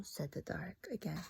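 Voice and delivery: hushed, breathy storybook whisper; whispering the dark's words to first graders; spooky whisper. Acted. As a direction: whisper it like a secret. Narrator whispers the dark's tag.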